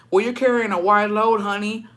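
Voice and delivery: lightly voiced sassy comeback; sassy white lady. White lady answering after almost hitting them, lightly sassy. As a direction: toss it off with a touch of sass. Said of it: "but very sassy".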